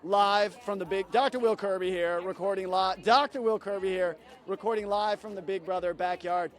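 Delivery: a hammed-up live reporter's sign-off; a mock news sign-off from the backyard. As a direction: announce yourself like a field reporter on air.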